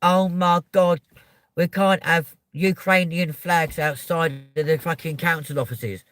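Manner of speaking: mock whiny complainer. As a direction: mimic the moaners, a little shrill in intent. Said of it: "people that start kicking off and moaning, going".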